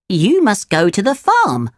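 a hint of a little cricket giving directions; Jiminy Cricket, advising. Cricket gives advice.

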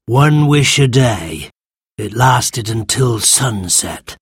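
lightly voiced creature, slow and reminiscing; grumpy old sand fairy. Sand fairy tells children about old wishes, slow creature voice. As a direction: reminisce slowly as an ancient creature.

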